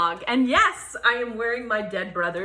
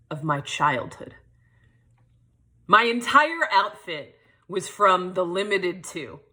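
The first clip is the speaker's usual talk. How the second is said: measured performed storytelling with deliberate pauses; spoken-word monologue. Acted. Poet performs her childhood memoir to an audience, spoken-word monologue. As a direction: recite it as a personal stage piece.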